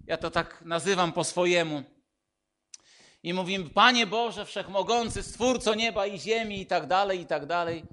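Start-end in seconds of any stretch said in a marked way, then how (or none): 3.7-6.6 formal prayer. Retold or imitated. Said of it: "przychodzimy do modlitwy i mówimy tak".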